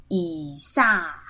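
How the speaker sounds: 以撒 with an audible, light h at the end; light final h. Shown as a demonstration. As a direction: say 以撒 slowly and let a gentle h escape after the last vowel. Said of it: "就是有点轻轻的发音".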